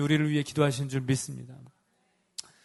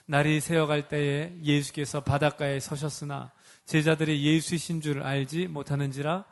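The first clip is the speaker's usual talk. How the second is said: scripture reading; 3 semitones lower than usual. Acted.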